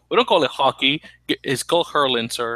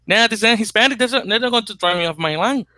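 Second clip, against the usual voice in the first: high-pitched, badly faked Irish accent; terrible Irish accent; 8 semitones higher than usual. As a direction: put on a bad Irish accent, pitched well up. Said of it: "that was a terrible Irish accent".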